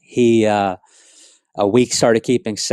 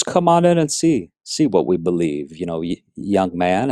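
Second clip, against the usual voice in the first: put-on mild Jamaican accent; 3 semitones lower than usual. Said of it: "with an accent real strong".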